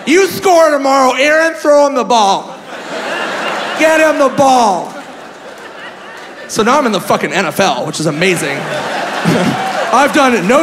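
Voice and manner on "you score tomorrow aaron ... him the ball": high-pitched imitation of a fan; excited older woman. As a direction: gush like a thrilled Green Bay lady. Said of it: "She goes".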